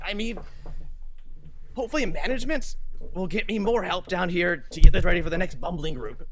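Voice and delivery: put-on high, muttering old man complaint; an old worker griping about his bosses; grumbling old man. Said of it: "and he's just like".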